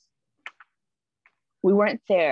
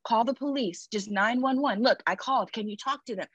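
coaxing; 3 semitones higher than usual. Retold or imitated. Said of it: "So I'm like".

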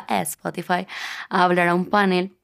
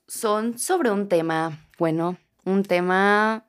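slow, measured segment opening; slow podcast intro; slower than usual. Acted. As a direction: announce the segment slowly.

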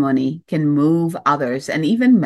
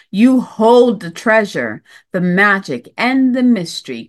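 uplifted; 4 semitones higher, 4 dB louder than usual. Acted. Reads card message.

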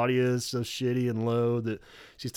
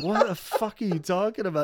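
higher, baffled Robert voice; imitating Robert; 7 semitones higher than usual. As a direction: play Robert lost in her story. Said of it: "only do Robert".

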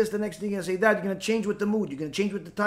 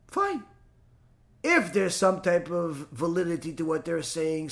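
usual speaking voice

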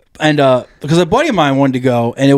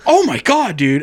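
shocked; 3 semitones higher than usual. Retold or imitated. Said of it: "I was like".

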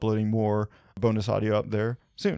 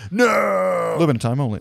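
mock crying; 4 semitones higher, 3 dB louder than usual. Joking desperate plea, then "kidding.

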